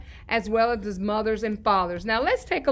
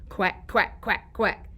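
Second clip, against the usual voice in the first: softer quack quack; duck quacks; 3 semitones lower, 4 dB quieter, slower than usual. Shown as a demonstration. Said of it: "What about the duck?".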